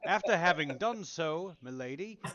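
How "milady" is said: British milady. Acted. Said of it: "there it is again".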